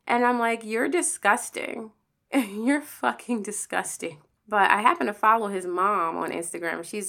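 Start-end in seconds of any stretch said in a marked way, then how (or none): 0.6-4.2 slow, laughing disgust. Retold or imitated. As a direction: drag it out, half laughing, half repulsed. Reply to the nudes text.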